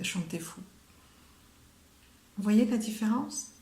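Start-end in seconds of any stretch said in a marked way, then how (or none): 0.0-0.6 whispered aside. Real, not acted. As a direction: breathe it as a soft whisper.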